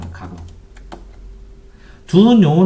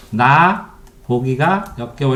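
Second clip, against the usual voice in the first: slow word by word; much slower than usual. Shown as a demonstration. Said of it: "이렇게 띄어썼죠".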